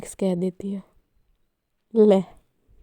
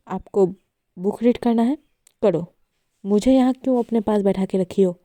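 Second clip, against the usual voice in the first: louder, picking a fight; slightly angry; 4 dB louder, faster than usual. Acted. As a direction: push back, a bit heated. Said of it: "Natasha का tone थोड़ा गुस्से वाला था".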